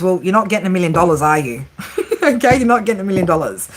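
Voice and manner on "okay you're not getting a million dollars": laughing, fast repeat. Real, not acted.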